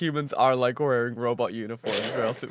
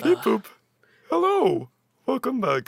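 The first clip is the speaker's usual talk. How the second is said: robot voice; 10 semitones higher, slower than usual. Pretend. Robot greeting.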